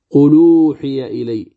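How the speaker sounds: qul uħiya said with the hamza's vowel moved onto the lam; linked reading. Shown as a demonstration. Teacher demonstrating the recitation to students. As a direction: demo the joined reading. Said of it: "كيف نقرأها؟".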